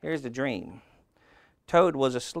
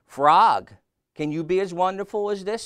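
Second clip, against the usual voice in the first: loud, high-pitched boastful call; 8 semitones higher, 10 dB louder than usual. A narrator's reading. Toad dancing on stage to Frog, calling out. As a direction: shout the name, then show off high.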